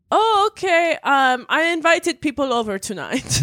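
high mock mom voice. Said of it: "my mom was like".

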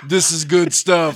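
slow, lightly acted connoisseur's approval; a hint of a drug buyer's verdict; mock drug-deal tester. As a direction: lightly play a dealer sampling the goods. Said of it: "tastes it like a drug deal".

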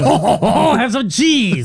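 put-on French accent. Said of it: "trying to do a French accent".

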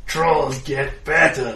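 slow loud dim troll. Acted. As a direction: drawl it slowly like a gleeful troll. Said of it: "says the other".

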